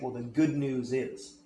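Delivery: good leaned on, slow and drawn out; stress on good. Shown as a demonstration. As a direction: savour the word good. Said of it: "asking a question, then saying".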